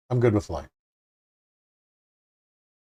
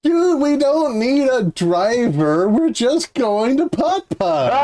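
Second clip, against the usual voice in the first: high, slow, goofy bro voice; dopey dude voice; 13 semitones higher, 4 dB louder than usual. Retold or imitated. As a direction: drag it out like a clueless dude. Acting out a dismissive buddy.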